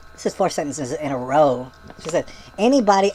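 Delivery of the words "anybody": loud mock shout of one word; exclaimed. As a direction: bark it like an exclamation point. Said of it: "these are all exclamation points".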